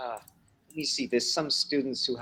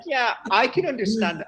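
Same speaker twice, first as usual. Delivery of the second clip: higher, slow soothing voice; higher slow placating yeah; mock patient reassurance; 11 semitones higher, 5 dB louder, slower than usual. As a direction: humor them gently, slowly.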